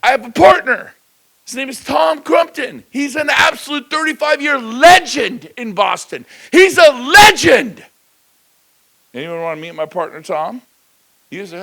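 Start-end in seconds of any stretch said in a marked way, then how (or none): 0.0-7.8 slow, high, loud proclamation; proud loud intro. Acted. Agent introducing his partner to a client, loud slow proclamation. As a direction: announce Tom like a star. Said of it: "I say".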